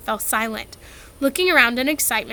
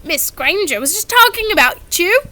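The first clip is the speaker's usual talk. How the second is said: shyly; 6 semitones higher, 5 dB louder than usual. A narrator's reading. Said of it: "said Peeves shyly".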